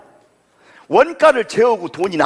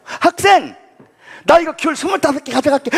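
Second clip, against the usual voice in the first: customer asking; 6 semitones higher than usual. Retold or imitated.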